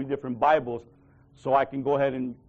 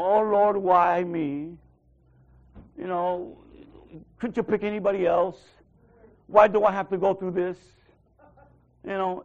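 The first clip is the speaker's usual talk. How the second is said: mock whining prayer; 3 semitones higher, 4 dB louder than usual. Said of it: "we start whining too much".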